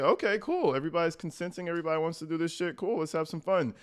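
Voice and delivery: lightly imitating an easygoing guest; agreeable party guest.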